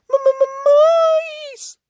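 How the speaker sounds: very high stammering panic; scared stammer. Acted. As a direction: stammer out in terror. Lofty scared of mice.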